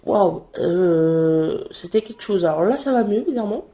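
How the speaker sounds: hoarse voice from a cold; raspy sick voice after coughing; smoker's rasp. Real, not acted. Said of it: "j'ai ma voix de fumeuse de quarante-cinq ans". (voix éraillée de fumeuse)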